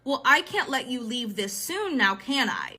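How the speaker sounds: slow, understated menace as a retold quote; mildly ominous, measured delivery; so serious. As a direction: imitate a date turning serious. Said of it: "like, so serious".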